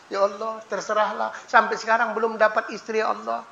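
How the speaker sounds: soft, offhand prayer; careless prayer. Retold or imitated. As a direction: toss off the prayer quietly. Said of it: "jangan salah minta". (doa asal-asalan yang lirih)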